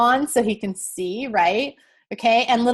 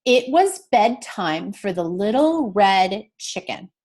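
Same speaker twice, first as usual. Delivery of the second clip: slow read-along; slower than usual. Shown as a demonstration. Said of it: "let's read our sentence together".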